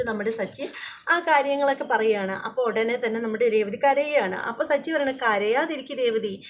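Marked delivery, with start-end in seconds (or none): 5.1-6.4 gentle comforting. Retold or imitated. Sachi comforting crying Revathi.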